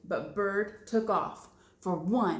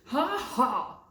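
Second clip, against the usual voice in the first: rude cackle; 4 semitones higher, 4 dB louder than usual. Acted. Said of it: "Pigeon cackled rudely".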